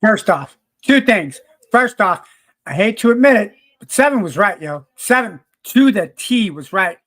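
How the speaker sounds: loud, fired-up declaration. Real, not acted. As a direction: pump it out loud to the crowd. The speaker hypes up Seven.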